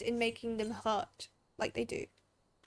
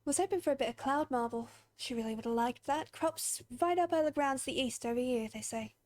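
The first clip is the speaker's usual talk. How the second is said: folksy, humble plea for a favour; a hint of a country townsperson asking for help; lightly voiced rustic villager. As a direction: read it as a plain-spoken villager. Same game character's dialogue.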